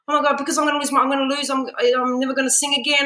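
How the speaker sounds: high, breathless mock despair to mum; retold panic. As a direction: plead with mum as if the voice is gone. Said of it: "My mum's like".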